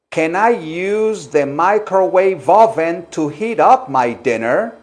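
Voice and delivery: slow, clearly projected question; measured teacher's demonstration; slow model sentence. Shown as a demonstration. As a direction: model it slowly for the class. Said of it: "Ahora díganlo así".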